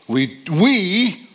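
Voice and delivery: We said high and pressed, twice; We, we punched up; stress on We. Shown as a demonstration. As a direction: lean hard on We. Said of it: "See if you can notice what words I emphasize".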